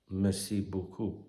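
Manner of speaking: soft, slow merci beaucoup in a hint of a French accent; attempted French accent. Shown as a demonstration. Podcaster guessing at French words, slow and half-hearted. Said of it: "what do they say?".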